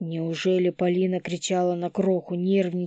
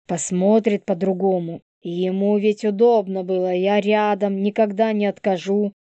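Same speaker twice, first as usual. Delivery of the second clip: put-on defiant young woman; 2 semitones higher, 7 dB louder than usual. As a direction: spit out her grievance. Polina voiced by narrator.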